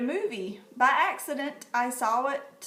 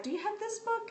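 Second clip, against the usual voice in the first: imitating her friend; 12 semitones higher, 3 dB quieter, faster than usual. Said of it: "She was like".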